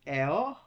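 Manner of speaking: eo run together as one drawn-out sound; wrongly joined vowels. Shown as a demonstration. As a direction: glide from e to o in eo as if a diphthong. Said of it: "is not a diphthong".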